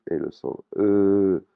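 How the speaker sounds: E étiré, lent; E long. Shown as a demonstration. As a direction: allonge bien le E. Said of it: "des voyelles courtes et des voyelles longues". (E long, tenu jusqu'au bout)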